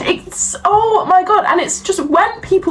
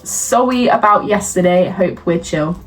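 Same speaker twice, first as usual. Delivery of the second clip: mock the text like a sulky child; mock baby-voice apology; 2 semitones lower, slower than usual. Reading out the boyfriend's lame apology text in a silly voice. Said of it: "Why are you talking like that?".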